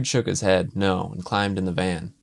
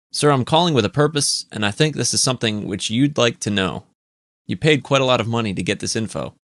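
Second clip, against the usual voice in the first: put-on Eastern accent; 4 semitones higher, 3 dB louder than usual. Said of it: "An Eastern accented voice".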